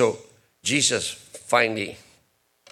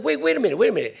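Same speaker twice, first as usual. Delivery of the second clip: sudden realization. Retold or imitated. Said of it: "all of a sudden".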